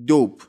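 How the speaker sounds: دوپ as English dope with a long o; dope pronunciation. Shown as a demonstration. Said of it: "یه نکتهٔ تلفظی هم بگم".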